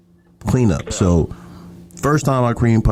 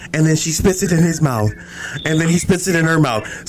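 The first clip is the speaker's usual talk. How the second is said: higher-pitched mock freak-out; freaked-out brother; 6 semitones higher than usual. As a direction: retell it as the appalled brother. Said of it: "he's freaking the fuck out".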